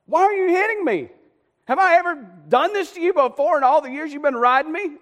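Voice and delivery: high, loud aggrieved protest; hammed-up outraged wail; indignant donkey. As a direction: play a beaten donkey crying out in complaint. Donkey protests being beaten.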